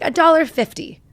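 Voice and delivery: put-on high, loud little-kid answer; five-year-old girl. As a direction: pipe it out like a child with the answer. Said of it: "She's five".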